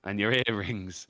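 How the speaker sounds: low-pitched menacing add-on; British pub mugger. Acted. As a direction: keep up the quiet robber's threat.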